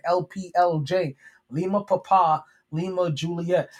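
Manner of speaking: "L P L J" spelled slowly, letter by letter, then "Lima Papa, Lima, Juliet" each word clearly set apart; slow deliberate spelling. Shown as a demonstration. Host repeats the promo code slowly for listeners. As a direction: spell it out slowly so nobody misses it. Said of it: "I'll say that again".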